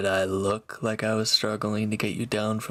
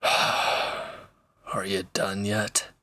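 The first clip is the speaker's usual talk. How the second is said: exasperated drawn-out sigh; much slower than usual. Acted. Impatient waiting for listener.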